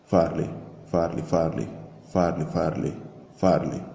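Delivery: mechanical repeated chant, like a sample on loop; looping loudspeaker voice. Retold or imitated. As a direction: echo the name like a distant megaphone loop. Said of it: "turned into a voice which was saying the same sentences as a looping sequence".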